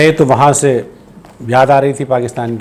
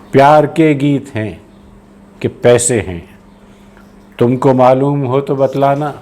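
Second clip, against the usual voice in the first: slow, evenly spaced verse lines; poetry recitation; slower than usual. Acted. Poet asking after a lost love, slow measured recitation. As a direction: recite slowly, letting each line settle.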